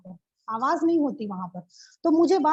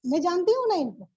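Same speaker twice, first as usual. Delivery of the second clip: offhand yes; 4 semitones higher than usual. Retold or imitated. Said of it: "मैं बोल रही हूँ ऐसे देख के".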